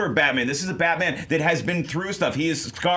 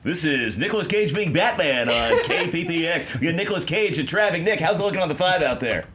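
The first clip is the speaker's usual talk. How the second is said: radio DJ voice. Pretend. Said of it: "you do have a fantastic radio voice".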